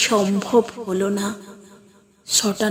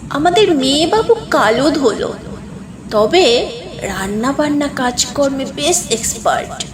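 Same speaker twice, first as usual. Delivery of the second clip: grandmother selling the bride; 2 semitones higher than usual. Acted. Grandmother pitching girl to guests.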